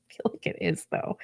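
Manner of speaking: whispered aside. Real, not acted. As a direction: breathe it in a whisper. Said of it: "whispered aside".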